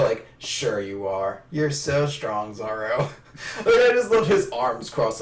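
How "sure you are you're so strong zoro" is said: slow, patronizing praise; indulgent, drawn-out mock flattery; Nami, stroking ego. Nami pats Zoro on the head, slow ego-stroking. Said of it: "stroking his ego".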